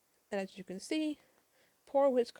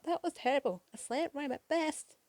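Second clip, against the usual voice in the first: higher-pitched mock yell, slowing at the end; 5 semitones higher than usual. Tails heckling the villain's rhymes, yelling out. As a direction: call out the heckle with mild force. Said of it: "But Tails yells out".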